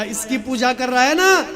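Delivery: mother taunts her son while lifting the stone; angry taunt. Acted. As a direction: sneer at his worship. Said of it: "तो मैया को क्रोध आया".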